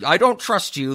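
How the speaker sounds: put-on terrible Indian accent. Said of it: "That was a terrible Indian accent that I just attempted to do".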